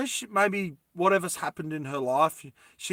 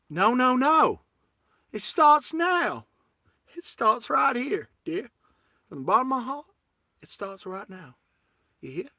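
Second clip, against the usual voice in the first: put-on American accent; 7 semitones higher than usual. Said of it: "please forgive my American accent".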